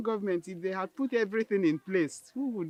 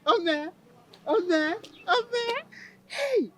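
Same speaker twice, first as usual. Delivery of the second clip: excited cries; 11 semitones higher, 3 dB louder, much slower than usual. Acted. Celebrating the pregnancy news.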